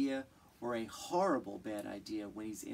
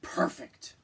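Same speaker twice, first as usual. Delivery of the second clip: sly bear whisper; 5 semitones higher, 6 dB louder than usual. Acted. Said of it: "Bear said".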